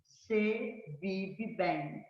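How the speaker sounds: drawn-out example phrase "se vive bem"; slow example. Shown as a demonstration. Teacher reads a grammar example to the class, slowly. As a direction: read it out slowly, word by word.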